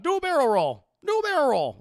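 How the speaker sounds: high, loud urgent instruction; game character catchphrase. Retold or imitated. Streamer quoting a flying game to chat, high shouted impression. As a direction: shout it like a wingman's tip. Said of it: "Star Fox lines".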